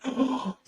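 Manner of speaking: sharp high gasp of surprise; excited gasp. Retold or imitated. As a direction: gasp like you just spotted it. Seeing sturgeon surface, retold.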